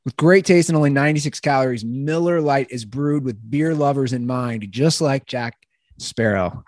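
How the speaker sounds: casual podcast sponsor read. Acted. Host reading a beer sponsor's copy, casual ad read. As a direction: read the copy smoothly, lightly selling it.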